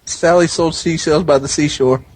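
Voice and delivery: slightly slurred, trying hard to be clear. Real, not acted. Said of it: "it's on the fence there".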